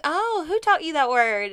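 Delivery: high, loud startled question; mock surprised. Asking the kids where they learned the word, high startled voice. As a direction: act caught off guard by the word. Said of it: "I was like".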